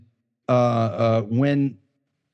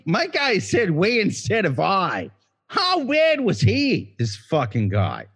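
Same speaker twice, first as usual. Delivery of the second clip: put-on Boston accent; 3 semitones higher than usual. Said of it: "you went with a Boston accent".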